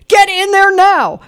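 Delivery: imitating a yelled order, high and loud; drawn-out, high-pitched mock yell; retold yell. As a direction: bark it like an impatient boss. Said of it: "program director yells at me".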